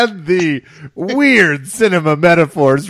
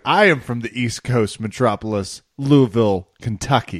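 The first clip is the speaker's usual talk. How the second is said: lower, softer mock-refined announcement; mock grandiose; 4 semitones lower, 3 dB quieter than usual. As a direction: play someone passing off a hometown as grand. Mocking the denied country accent.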